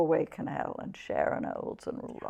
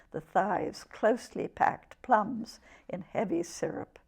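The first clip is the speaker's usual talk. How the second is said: measured poetry recital, each phrase set apart; poem reading; 4 dB quieter than usual. Acted. Poet reads her poem about a birth to the interviewer, measured recital. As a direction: read it as verse, pausing between images.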